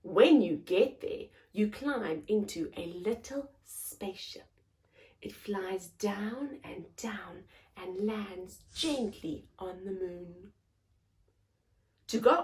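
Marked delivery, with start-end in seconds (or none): 1.5-10.5 soft whisper, landing gently. Acted.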